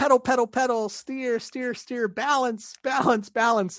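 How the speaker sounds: high-pitched, play-acted yelling. Teaching a daughter to ride a bike, retelling own shouting at her. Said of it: "and I'm shouting".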